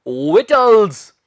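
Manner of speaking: विटल्स slow and loud, VIT-ulz; correct pronunciation. Shown as a demonstration. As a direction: model विटल्स with no K sound. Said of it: "इसका सही उच्चारण है".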